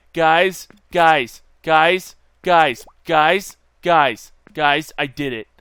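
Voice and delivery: loud, repeated attention-grabbing cry; excited calling out. Real, not acted. Player calling viewers to share the success, excited and loud. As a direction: hammer each call out loudly.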